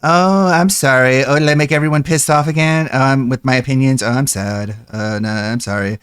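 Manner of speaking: hammed-up fake apology to the angry internet; mock whiny lolcow. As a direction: sneer like a smug online critic playing the victim. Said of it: "it's so common for lolcows to be like".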